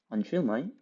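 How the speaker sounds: mock Aussie, tossed off; jokey Australian twang; put-on Australian accent. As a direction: play with an Australian accent under your breath. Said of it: "start saying stuff in the accent".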